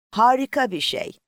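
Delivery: high, bright burst of delight; thrilled. A narrator's reading. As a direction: let the wonder lift the voice up high. Girl thrilled on first flight.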